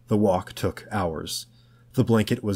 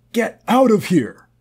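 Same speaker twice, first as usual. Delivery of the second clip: much higher, loud shouted order; furious scream; 12 semitones higher, 7 dB louder than usual. A narrator's reading. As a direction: scream him out. Tom screaming at George.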